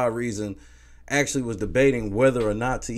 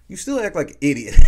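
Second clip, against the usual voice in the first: laughing jab; 4 semitones higher, 11 dB louder, faster than usual. Real, not acted. Ranting about Josh, laughs.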